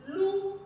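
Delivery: "louve" broken into "lou" and "ve"; held "lou", short pause, "ve" for "louve"; syllable by syllable. Shown as a demonstration. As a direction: model "louve" slowly in two separate beats. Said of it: "on le lit syllabe par syllabe".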